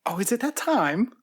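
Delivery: slight English accent, rising question. Real, not acted. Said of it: "I don't like it if you're doing an English accent".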